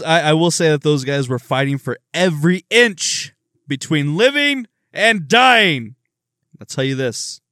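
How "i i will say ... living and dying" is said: pep talk building to a rise; Al Pacino speech. Retold or imitated. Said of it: "I'm quoting fucking Al Pacino".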